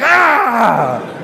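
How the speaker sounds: loud drawn-out "ah" cry; mock cry. Imitates the sisters' stabbing answers.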